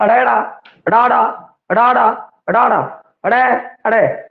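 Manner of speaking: ਅਡਾੜਾ and ਅੜੈ with a curled-back tongue; sound demo. Shown as a demonstration. Teacher pronouncing ਅੜੈ for the class. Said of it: "ਜਦੋਂ ਇਹਦਾ ਆਪਾਂ ਉਚਾਰਨ ਕਰਦੇ ਹਾਂ".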